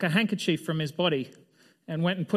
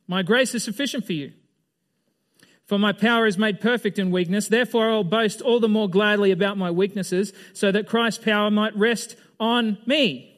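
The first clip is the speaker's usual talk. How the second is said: louder, higher proclamation; forceful rereading; 4 semitones higher, 5 dB louder than usual. Shown as a demonstration. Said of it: "rereads with force".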